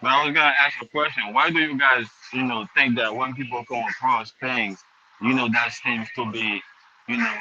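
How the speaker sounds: muffled, echoey mic sound; like talking from inside a tunnel; echoing tunnel. Real, not acted. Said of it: "You sound like you're in a tunnel".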